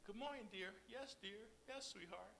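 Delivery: sweet wife. Acted. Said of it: "wives have to say".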